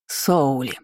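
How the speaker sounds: demanding ghostly aunt calling a name. A narrator's reading. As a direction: summon with quiet insistence. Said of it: "требовательно воскликнул призрак". (требовательный оклик)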